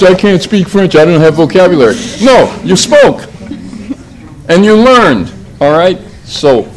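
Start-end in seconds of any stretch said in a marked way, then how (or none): 0.0-1.9 raised, louder imitation of a small child complaining; mock child's excuse. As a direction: parody a five-year-old making excuses to parents. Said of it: "did you tell your parents".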